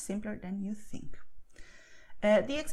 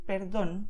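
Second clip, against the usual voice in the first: perdón stressed on the final DÓN; stress on the accent. Shown as a demonstration. Teacher repeating the example, perdón stressed on DÓN. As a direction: put the weight on the ó of perdón. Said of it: "You just go and stress it".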